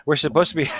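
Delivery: cracking up mid-sentence; real laughing fit breaking up the words; can't keep straight face. Real, not acted. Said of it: "can't even say it with a straight face".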